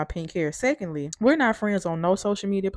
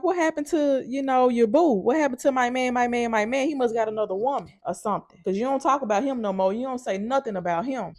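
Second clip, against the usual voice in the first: higher teasing sing-song, needling a coworker; taunting the nosy coworker with a higher mocking lilt; 5 semitones higher than usual. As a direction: poke at her about her man. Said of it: "I was like".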